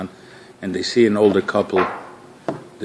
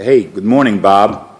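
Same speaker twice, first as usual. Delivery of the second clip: louder, hearty hello with the name; friendly greeting by name; 6 dB louder than usual. Shown as a demonstration. Greeting a colleague who walks in, louder and friendly. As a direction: greet him like you're glad to see Bob. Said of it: "it's a totally different feeling".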